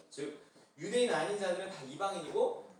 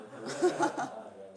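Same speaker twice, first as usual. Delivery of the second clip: laughing; 6 semitones higher, 5 dB louder, much slower than usual. Real, not acted. Pastor laughs at own plan.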